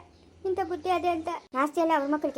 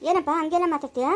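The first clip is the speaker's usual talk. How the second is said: indignant raised voice; loud protest; 5 dB louder than usual. Acted. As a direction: push back loudly at him. Protest in quarrel.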